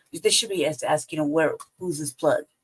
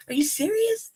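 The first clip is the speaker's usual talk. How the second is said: high, disbelieving "are you serious"; mock shock at a careless gunowner; incredulous; 12 semitones higher than usual. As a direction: shoot the pitch up in disbelief. Retold incredulous reaction.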